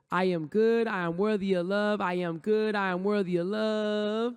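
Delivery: funky, confident chant with a slow final line; with swagger. Shown as a demonstration. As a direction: strut through the words. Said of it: "put a little swagger on it".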